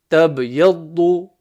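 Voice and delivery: slow careful reading of tab, yaddu; slow recitation demo. Shown as a demonstration. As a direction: read tab, yaddu slowly and deliberately. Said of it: "demo of joined syllables".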